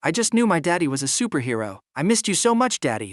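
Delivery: put-on high, gushing little girl. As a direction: squeal like a clingy toddler. Little girl hugs her daddy.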